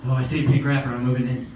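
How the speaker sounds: low, loud mock-menacing schemer; plotting girl. Little blonde girl spots a pink wrapper, low scheming voice. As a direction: drop the pitch and close in on the prize. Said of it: "plotting. She's like".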